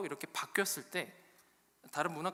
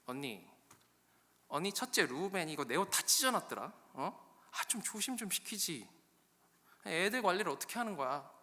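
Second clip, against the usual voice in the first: higher, peevish sister's complaint; acted sisterly griping; complaining Rachel; 4 semitones higher than usual. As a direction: nag an older sister about the kids. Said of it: "라헬이 또 이제 언니한테 가서 얘기하는".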